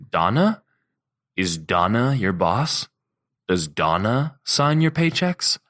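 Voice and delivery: slow, loud, mocking questions; sarcastic anger. A narrator's reading. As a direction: sneer each Donna. Boss sarcastically berates chef.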